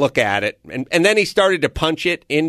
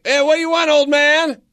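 high, loud defiant taunting; a kid shouting back at a stepdad, mocking; mock yelling back; 13 semitones higher, 4 dB louder than usual. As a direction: yell back cheeky at the old man. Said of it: "yelling back".

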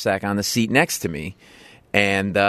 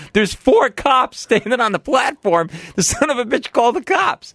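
high-pitched, incredulous storytelling climax; indignant outburst; 11 semitones higher than usual. Retold or imitated. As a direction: jump way up in outraged disbelief.

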